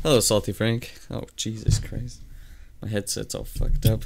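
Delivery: glitchy robotic headset; distorted robot headset voice. Real, not acted. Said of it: "Sounds like a robot".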